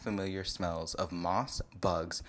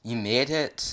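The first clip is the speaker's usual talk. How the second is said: louder, lightly sweet greeting; 3 semitones higher, 5 dB louder than usual. Acted. Shrek welcoming you at his door, sweet tone. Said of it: "He said in a sweet tone".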